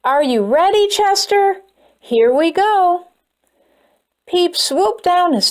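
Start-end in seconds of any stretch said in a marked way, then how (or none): 0.0-3.1 calling out. Acted. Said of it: "Peep yelled from above".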